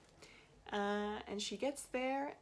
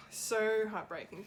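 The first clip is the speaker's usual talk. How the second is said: heartbroken; 4 dB louder than usual. Real, not acted.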